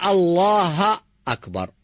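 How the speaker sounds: الله أكبر drawn out slowly in the new style; new fashion adhan. Retold or imitated. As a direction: imitate the trendy muezzin stretching الله أكبر. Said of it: "جاوا على موضة جديدة".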